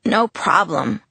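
raspy chain smoker croak; hoarse voice. Acted. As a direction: rasp it through a sore throat. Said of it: "I sounded like a chain smoker".

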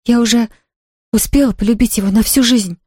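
put-on a young girl begging her aunt; young girl's voice, pleading. A narrator's reading. Pollyanna voiced by narrator. (юная девушка, робко умоляет)

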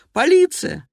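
high loud alarmed cry; yelling out for the police; shouting for police. Acted. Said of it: "снова крики".

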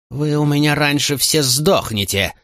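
high, slow enraged threat; furious shout. A narrator's reading. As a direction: roar the threat. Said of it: "выкрикнул Максимий".

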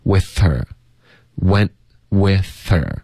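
WITH HER run together with the H of HER dropped; linked, silent H. Shown as a demonstration. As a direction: slowly link WITH straight into HER, no H. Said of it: "把H的音给省了". (慢速连读WITH HER，省掉HER里的H音)

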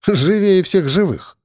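slow, smirking drawl. Acted. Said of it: "хмыкнул парнишка".

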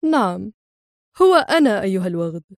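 a hint of cool contempt; unbothered insult; coldly. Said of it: "ويقول في برود".

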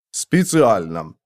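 веско. Acted. Важный ответ посланца.

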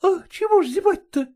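high, innocent, wide-eyed question; naive lady dog. Acted. Ragulya asking Polkan about the bones, high naive voice. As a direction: ask as if you know nothing. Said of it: "наивно спросила она".

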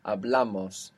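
Hablamos with the weight on BLA; penultimate stress. Shown as a demonstration. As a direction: stress the middle syllable of Hablamos. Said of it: "still on the second last".

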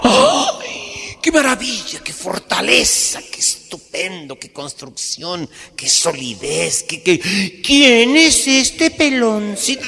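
high loud amazed squeal; squealing nun. Acted. Nun marveling at the priest, high delighted squeal.

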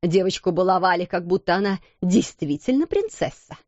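contemptuous. Acted. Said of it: "презрительно проговорила она".

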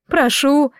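mild tearful plea; through tears. A narrator's reading. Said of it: "сквозь слёзы бормотала она".

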